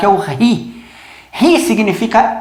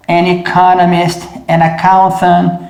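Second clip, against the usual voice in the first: slow demo; slower than usual. Shown as a demonstration. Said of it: "vai ser an author".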